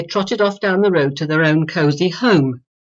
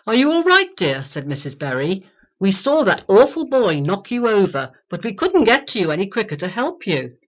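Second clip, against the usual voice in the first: put-on elderly neighbour woman. Narrator voices Missus Berry.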